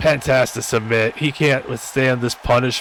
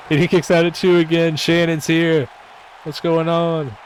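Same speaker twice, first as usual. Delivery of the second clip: higher pitched shocked reaction; sudden surprise, higher; surprised; 6 semitones higher than usual. Real, not acted. Shock at another kickout.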